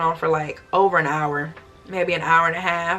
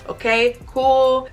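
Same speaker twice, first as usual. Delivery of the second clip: casual agreement; 5 semitones higher, 4 dB louder, much slower than usual. Retold or imitated. Imitated airport staff agreeing.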